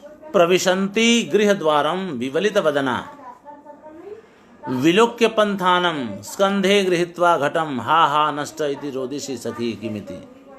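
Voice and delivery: measured recitation of a Prakrit verse. Acted. Teacher recites the Prakrit verse to the class in a measured recitation. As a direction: recite the verse in a rhythmic, chanting cadence.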